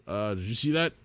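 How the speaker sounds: uneasy, half-whispered worry; nervous question. Acted. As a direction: ask it a little uneasy. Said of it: "How many times am I gonna have to say that today?".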